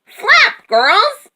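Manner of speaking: very high, loud urging; high-pitched rallying yell; rooster's yell. A narrator's reading. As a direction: yell orders as a frantic rooster. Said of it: "yelled the rooster".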